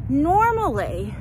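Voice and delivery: winded, slow word while walking; breathless from walking; out of breath. Real, not acted. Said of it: "sorry, I'm out of breath".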